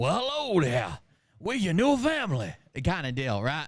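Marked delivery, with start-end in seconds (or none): 0.0-2.5 exaggerated, fake Southern drawl, swooping. Retelling a man greeting his new foster kid at the door, over-the-top fake Southern drawl. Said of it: "He's got a real over-the-top fake Southern draw".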